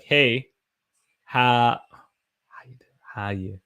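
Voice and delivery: trailing into a whisper on "How you?"; letters squeezed together, fading out; mashed-together greeting. Shown as a demonstration. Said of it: "all my letters are put together".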